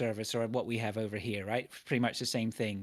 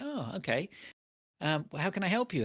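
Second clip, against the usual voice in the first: higher, sugary-sweet retold politeness; mock polite; 6 semitones higher than usual. To the dental receptionist, mock polite. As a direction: play along with forced courtesy. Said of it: "And I was like".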